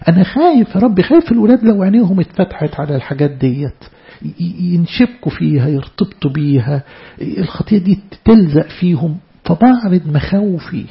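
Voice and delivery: earnest prayer to God, voice rising in worry; fervent sermon-style pleading prayer. Acted. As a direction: pray it aloud as a frightened servant. Acts out a worried prayer.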